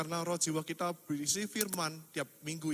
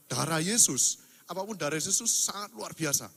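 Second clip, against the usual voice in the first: louder, ringing out the blood of Jesus; emphatic proclaiming; 3 semitones higher, 7 dB louder than usual. Real, not acted. Preacher to the congregation, ringing proclamation. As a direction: preach it out with full force.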